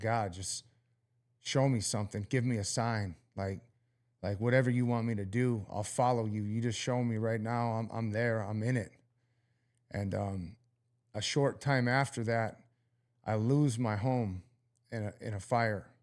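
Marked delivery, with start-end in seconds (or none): 0.0-7.7 acted-out weeping, tearful pleading tone. Recounting lying on the floor weeping, reenacting crying out to God. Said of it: "I'm crying out to God".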